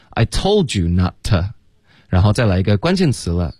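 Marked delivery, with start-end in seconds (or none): 0.1-1.5 "told you" as tol-ju, "not to" as nah-tuh; slow model linking "told you" and weakening "to"; linked, reduced forms. Shown as a demonstration. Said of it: "not的t省略了，to弱读成t".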